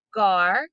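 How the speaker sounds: "gar" alone, loud and drawn out; isolated syllable. Shown as a demonstration. Teacher taking her turn for students to repeat, isolated syllable. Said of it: "listen again how this would sound".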